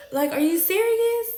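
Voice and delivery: high, loud, incredulous shout; hurt fury at him; outraged yell. Retold or imitated. To the cheating boyfriend, high incredulous shout.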